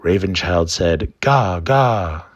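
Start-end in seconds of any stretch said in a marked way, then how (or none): 1.2-2.2 put-on cawing baby raven. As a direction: caw like a crying raven chick. Baby raven crying caw.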